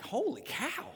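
high-pitched stunned exclamation; shocked. Retold or imitated. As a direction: let the pitch leap in mock shock. Shocked reaction to felony news.

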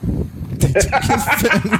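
high, slow mocking voice. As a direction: squeak it out slowly, teasing. Mocking the streamer's complaint.

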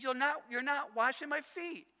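loud, high-pitched defiance; defiant Peter. Acted. Peter still refusing Jesus the foot washing, defiant. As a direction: dig in and refuse forcefully. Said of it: "But Peter was still defiant".

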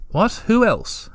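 quick alarmed questions, rising high; surprised. A narrator's reading. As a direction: jolt up in surprise. Startled by news of lost one.

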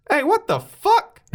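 loud, high-pitched exclamation; startled outburst. Acted. Prisoner calling out to a passing detective, startled outburst. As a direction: cry out high, loud and drawn out.

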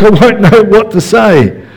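high, mocking voice of a wife. Preacher mocking a wife who always knows what to say. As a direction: tease like a wife who never runs out of words. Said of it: "said no wife ever".

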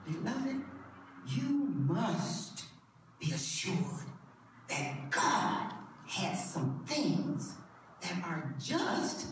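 softly assuring the beloved congregation; soft, intimate preaching. Acted. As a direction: lean in and tell them gently. Soft intimate sermon address.

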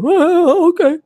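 high, limp-wristed millennial voice; mock an effete millennial; millennial impersonation. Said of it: "limp-wristed millennial impersonation".

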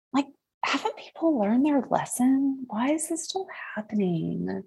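put-on high, breezy Valley Girl whine. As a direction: ask it like a bored Valley Girl. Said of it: "in my best Valley Girl voice".

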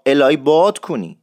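الهی باد کنی with باد stretched out; drawn-out vowel. Shown as a demonstration. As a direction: hold the long آ in باد. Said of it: "این آی بادو حتماً بکشین".

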